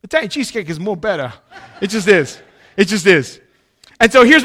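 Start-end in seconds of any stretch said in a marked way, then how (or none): 0.0-1.3 fast mock Italian accent, amused. Friend repeating the waiter's verdict, mock Italian accent. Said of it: "do my best Italian accent".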